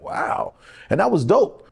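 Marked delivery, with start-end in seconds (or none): 0.0-0.5 breathy whispered amazement; whispered wow. Retold or imitated. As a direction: breathe it out in awe. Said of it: "I was like".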